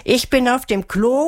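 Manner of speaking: mild shout to someone in another room; calling out. A narrator's reading. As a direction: call through the house. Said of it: "rief Melissa".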